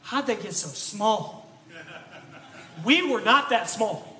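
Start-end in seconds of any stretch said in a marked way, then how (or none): 0.0-1.5 slow puzzled bro voice, drawn out; mock amazement, slowed down; imitating a baffled bro. Kid shocked by his old toys, slow puzzled bro. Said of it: "you'll be like".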